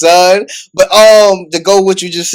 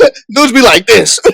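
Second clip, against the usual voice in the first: laughing; 4 semitones higher than usual. Real, not acted. Laughing while mimicking commenters.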